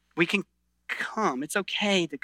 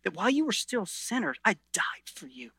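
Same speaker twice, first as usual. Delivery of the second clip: tender Jesus voice. Retold or imitated. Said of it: "what he's saying to you is".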